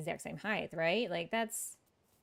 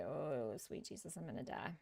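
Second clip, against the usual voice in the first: mock despair; 5 semitones lower, 12 dB quieter than usual. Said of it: "you're just like".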